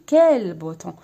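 loud exclamation of "كال بوتون"; exclaiming. Shown as a demonstration. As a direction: exclaim it loudly as a model of an exclamation. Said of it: "كيما نقولوا حنا بالعربية يا له". (نطق "كال بوتون" بتعجب وبصوت أعلى بكثير)

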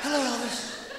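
Miss Jones voice. Acted. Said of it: "I can't do her".

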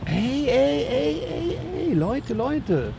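high, urgent calls to the dogs; calling the dogs. Real, not acted. Trainer breaks up the wild dogs with high urgent calls.

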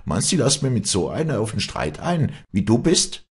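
high, heated scorn; loud challenge. A narrator's reading. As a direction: look down on her, loudly. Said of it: "rief Walli laut".

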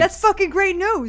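high, loud, drawn-out delight; delighted outburst. Acted. New Yorker hearing the anti-gay policy is dropped, loudly delighted. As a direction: burst out thrilled, stretching the words.

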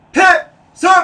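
sharp high shouted salute; military shout. Shown as a demonstration. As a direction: snap it out loud. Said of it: "demonstrates salute shout".

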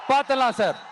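taunting challenge with a laugh in it; laughing rally taunt. Real, not acted. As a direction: throw the dare back with a laugh.

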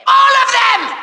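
emphatic villain outburst. Acted. Villain adds emphatic afterthought.

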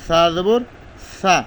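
সা said as a light, thin s sound; সা jabar said thin and light. Shown as a demonstration. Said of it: "পাতলা করে".

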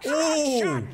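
high, delighted gasp at the chainsaw; ooh, hooked by the new find; excited ooh. Real, not acted. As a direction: pitch jumps up in excitement over a weapon. Spots chainsaw in box.

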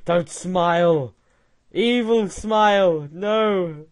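mock fright. Reacts to robot face, mock fright.

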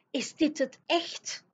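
high, slow, wide-eyed giant voice; a big friendly giant gaping in wonder. Acted. Giant staring at the palace, high and slow.

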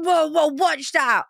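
high, slow mock alarm; imitating Liam's panic. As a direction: ham up a jumpy passenger, pitched high. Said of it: "He's like".

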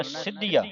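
ਸਿੱਧੀਆ pressed tight on the doubled consonant; firm "sid-dhiya" for ਸਿੱਧੀਆ; tight pronunciation. Shown as a demonstration. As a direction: hold the middle consonant of ਸਿੱਧੀਆ. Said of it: "ਇਹਨੂੰ ਕੱਸ ਕੇ ਬੋਲਣਾ".

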